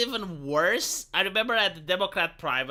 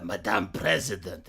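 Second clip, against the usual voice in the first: mock deep voice calling; 12 semitones lower than usual. Another voice calls her.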